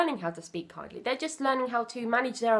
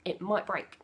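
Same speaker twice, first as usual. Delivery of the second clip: calm explanation; 2 semitones lower, 5 dB quieter than usual. Shown as a demonstration. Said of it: "I say".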